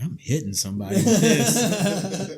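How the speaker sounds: hyped-up shout; excited quote. Retold or imitated. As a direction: blurt it out eagerly. Retold thought, acted quote.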